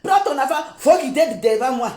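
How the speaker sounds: lightly imitating a heavy French accent. Vlogger mimicking the mother telling them to move, light heavy French accent. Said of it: "Avec un lourd français".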